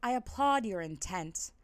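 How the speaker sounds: rhythmic, sing-song rhyming read-aloud; lilting holiday storyteller; storybook narration. A narrator's reading. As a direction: read it like a bedtime story to kids.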